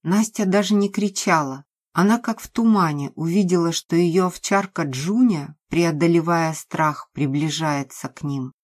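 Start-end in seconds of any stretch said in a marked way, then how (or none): none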